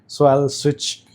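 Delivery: mic with noise reduction artifacts; processed voice, background noise gated out; noise cancellation. Real, not acted. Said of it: "this is the microphone with active noise cancellation on".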